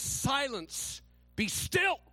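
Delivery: lightly voiced firm command; a hint of calming authority; commanding Jesus. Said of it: "he said to the waves".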